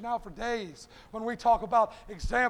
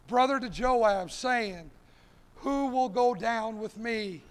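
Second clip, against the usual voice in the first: scripture reading; 4 dB louder than usual. Acted. Reads the scripture text aloud.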